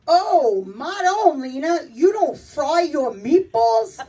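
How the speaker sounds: imitated mom butting in from the kitchen; drawn-out, scandalized kitchen objection; interrupting mother. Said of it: "my mother's in the back and in the kitchen".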